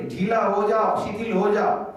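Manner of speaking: slow, soothing "ढीला हो जाओ" spoken to the belly; gentle inner command. Shown as a demonstration. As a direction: coax the belly to relax, slowly. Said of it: "पेट को कहना है मन से".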